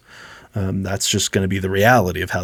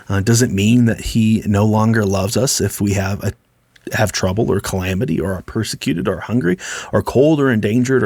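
scripture read out full-voiced; booming reading. Shown as a demonstration. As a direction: proclaim it, don't whisper it. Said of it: "I'll read this with a big booming voice and not quiet".

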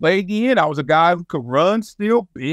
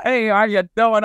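lightly imitated coach greeting, pitched up; higher retold coach voice; Marv Levy; 4 semitones higher than usual. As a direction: say hello as the coach would. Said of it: "that's how he sounded".

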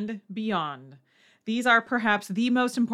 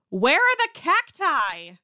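mock confusion at the beach; baffled tourist; 2 semitones higher, slower than usual. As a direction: play a puzzled beachgoer looking for desert creatures. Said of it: "you hear someone ask".

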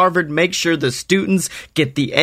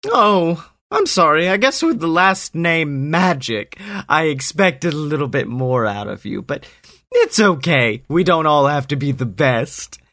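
fake sympathy; 3 semitones higher than usual. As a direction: pretend to feel sorry, smugly.

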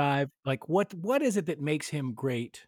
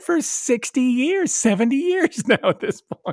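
higher, louder, slow hammed-up Southern drawl; mock Southern drawl; 8 semitones higher, 5 dB louder than usual. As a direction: stretch it out like a cowboy, teasing. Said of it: "He's got this Southern drawl".

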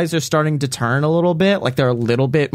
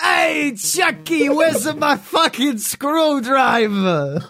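much higher, slow, squeaky cartoon-toddler yell; cartoon kid voice; 14 semitones higher, much slower than usual. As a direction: belt it out like a bossy cartoon baby. Mocking Italian Rugrats cartoon.

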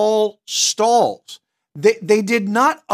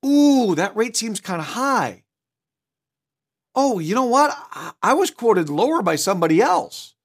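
friendly, not argumentative; 3 semitones higher than usual. Shown as a demonstration. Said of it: "Notice my voice tone here".

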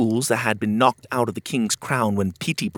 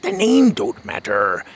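lightly voiced old sea dog, fond; a hint of a salty old sailor, tender. Otis talking to Pockets on the boat, a hint of an old sailor voice.

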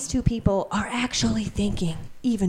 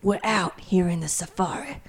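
Samuel L. Jackson. Acted. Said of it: "Samuel L. Jackson".

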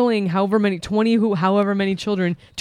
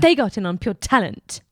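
put-on British accent. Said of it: "I did the same accent".

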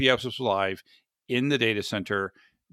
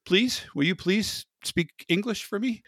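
hammed-up French then pleading English, rising higher; clumsy American tourist asking for English; mock tourist French; 6 semitones higher than usual. American tourist begging a French waiter, mock plea. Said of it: "I can say".

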